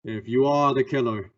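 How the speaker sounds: grave warning to the suspect; stern warning. Acted. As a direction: lean into the threat. Shadow threatens suspect.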